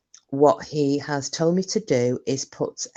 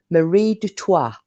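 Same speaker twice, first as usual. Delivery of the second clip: lightly posh, careful; posh pronunciation; 4 semitones higher, 4 dB louder than usual. Pretend. A hint of posh for the viewer's name. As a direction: say the name with care. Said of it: "I'm going to act really posh now".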